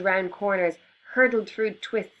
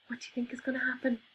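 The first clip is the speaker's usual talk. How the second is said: excited; 5 semitones higher, 6 dB quieter, much faster than usual. Acted. Excited question to children.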